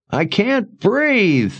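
high, slow, gasping through tears; weeping, breathless plea. A narrator's reading. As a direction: sob out the words. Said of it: "ignoring Oba's distress, his weeping".

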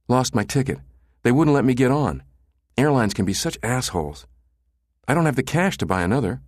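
put-on stranded teenage girl. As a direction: grumble like a hint of an aggrieved teen. Narrator voices stranded teenage girl.

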